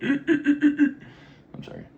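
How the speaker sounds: giggling apology; laughing. Real, not acted. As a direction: laugh through the words. Laughs at own weird noises.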